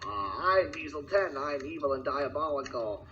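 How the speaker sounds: cackle, then announce yourself as the villain; new villain introducing himself with a cackle; villain intro. Acted.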